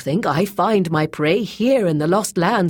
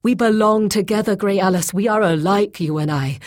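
raised, loud, insistent pleading; urgent persuasion; 6 semitones higher, 5 dB louder than usual. A narrator's reading. Bound Boyce persuading Grey Alis to untie him, urgent pleading. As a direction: press her earnestly to trust you.

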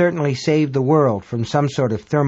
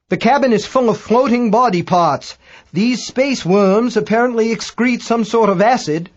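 high, raised character voice, halting and self-correcting; Dagbolt reporting, flustered; 6 semitones higher, 4 dB louder than usual. A narrator's reading. British astronomer reports cabin full of worms, high flustered voice. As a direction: report horrors in a high, fussily urgent voice.

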